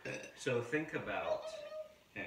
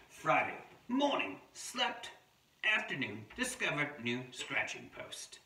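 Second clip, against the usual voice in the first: lightly put-on Australian diary voice; attempted Australian accent; 5 semitones higher than usual. Adult reading a wombat's diary to children, light Australian accent. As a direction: read the entries with a hint of pretend Australian. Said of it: "not sure if this is a real Australian voice".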